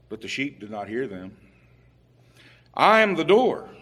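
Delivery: solemn, measured reading of the King James text; scripture reading. Acted. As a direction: read it out like a preacher proclaiming scripture. Reads scripture passage aloud.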